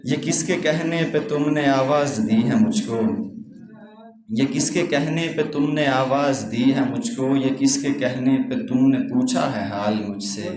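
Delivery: measured mushaira recitation with lingering phrases; poem recital. Acted. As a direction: recite each couplet gravely, repeating the first line. Recites own couplets.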